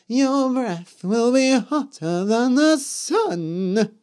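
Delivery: high, slow cursing witch. A narrator's reading. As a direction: cast it like a curse. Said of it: "said the Yellow Witch".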